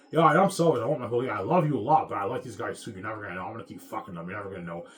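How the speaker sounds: mock her selfish reasoning, half-hearted impression; a hint of a brazen wife, voiced with scorn; mocking his wife. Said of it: "That's the way she thinks".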